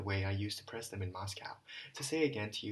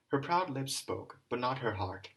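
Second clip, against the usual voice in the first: loathing; 3 semitones higher, 3 dB louder than usual. Acted. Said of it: "with a kind of loathing".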